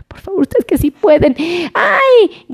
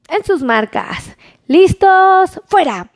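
playful countdown to start the race; race starter call; 2 semitones higher, slower than usual. Pretend. Race start call for phone number.

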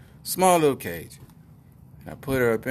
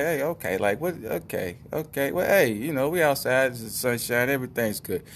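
raised, halting pretend dog voice; nervous dog voice; 4 semitones higher than usual. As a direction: voice a jittery dog talking itself into calm. Voicing shaking dog, reassuring itself.

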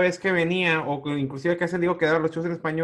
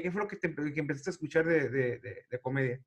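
softer and softer, ending in a whisper; fading to a whisper; 4 semitones lower, 9 dB quieter than usual. Real, not acted. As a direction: trail off into a whisper. Asking softly, interviewer fades.

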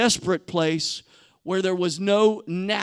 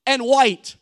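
rally everyone for a matching photo; eager tourists; 3 semitones higher than usual. Retold or imitated. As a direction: Israelites planning a family photo, playful excitement. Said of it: "they're like".

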